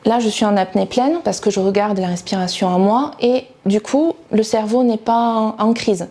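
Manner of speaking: talking on a full held breath; holding breath. Shown as a demonstration. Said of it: "on va prendre une grande inspiration". (parler en retenant son souffle)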